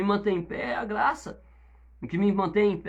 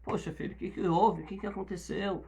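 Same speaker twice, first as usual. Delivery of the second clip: put-on softer, caring questions to a young member; gentle pastoral questioning; 5 dB quieter than usual. Pastor softly asks the young member why he drank, in a gentle tone. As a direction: ask like a worried father, softly. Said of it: "eu chego pro Tom e falo assim".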